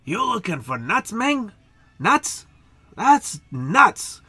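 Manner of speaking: high, incredulous penguin voice; little penguin. Acted. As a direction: squeak up in pitch on each question. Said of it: "this little penguin picks up and says".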